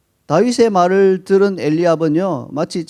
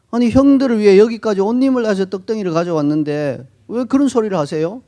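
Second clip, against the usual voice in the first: indignant complaint, louder and higher; sulky retort; 4 semitones higher, 3 dB louder than usual. Retold or imitated. Younger brother sulkily talks back to his older brother. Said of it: "이렇게 볼멘 소리로".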